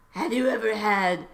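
slow, lightly put-on smirk; Donald Trump. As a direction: draw out a mock suggestive question.

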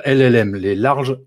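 jokey English accent on the English words, slowed down. Shown as a demonstration. Guest to podcast host, naming AI models in a playful English accent. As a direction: says the English term in a self-mocking English accent, slow. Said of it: "Avec mon super accent anglais".

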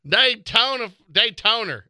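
Daytoner said with an added R at the end, high; Daytoner, redneck pronunciation. Shown as a demonstration. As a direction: say Daytona as Daytoner, hick style. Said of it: "there's an R in there".

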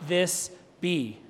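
very slow, one word at a time; heavy, halting despair; acted despair. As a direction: voice hopeless disbelief, drawing out every word.

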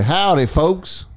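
slow drawn-out country accent. Shown as a demonstration. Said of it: "Let me hear your country accent".

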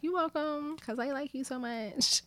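hushed, high inner voice; breathy-free soft swoon in her head; inner whisper. Retold or imitated. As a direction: whisper it as a secret thought. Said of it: "I thought it in my head".

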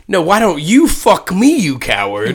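mock bold comeback. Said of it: "what a bold move".

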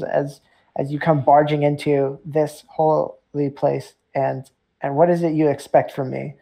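a cornered priest pushing back; agitated priest. Acted. Priest rebuking the adventurers who barged in, indignant.

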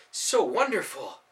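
awed. Acted. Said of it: "filled with awe".

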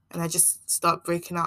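normal talking voice

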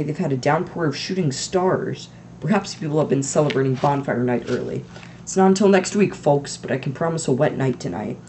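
chirpy TV weatherman; jolly forecaster greeting. Acted. Weatherman answering the anchor, chirpy.

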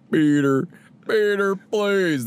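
a light impression begging, breaking into laughs; Bader impression. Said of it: "I can't do it without laughing".

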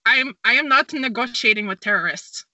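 weak fake Polish accent; a clumsy try at Polish; bad Polish accent. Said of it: "the worst Polish accent I've ever heard".

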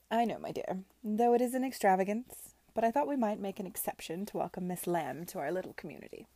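lightly voiced grand aunt, self-satisfied; gratified Lady Denham. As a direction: explain with a touch of grandeur.

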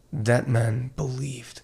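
put-on slow, solemn German accent. Doctor recalling the pastor's death, slow German accent. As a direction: testify with a German accent, pausing between phrases. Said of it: "I'm doing my German accent".

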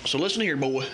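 put-on loose, drawling Southern country accent throughout; hammed-up Southern country accent giving fishing tips. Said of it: "in my best form of country accent".

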